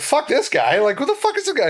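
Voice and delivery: high, incredulous outburst; hammed-up disbelief at the stranger; mock outrage. Venting to Bonville about Ben, mock outrage.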